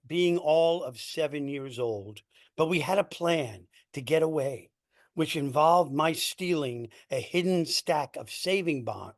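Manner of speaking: emphatic, projected spoken-word storytelling; poetry reading. Acted. Poet reading their poem to an audience, emphatic poetry-reading delivery. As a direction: read it out in measured phrases, punching key words. Reads second poem aloud.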